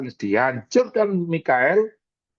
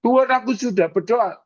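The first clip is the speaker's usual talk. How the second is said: protesting believer; 10 semitones higher than usual. Retold or imitated. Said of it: "believer protests to God".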